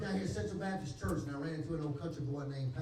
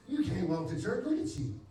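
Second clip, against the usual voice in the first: laughing disbelief; 4 semitones higher, 4 dB louder than usual. Retold or imitated. Sister doubting him.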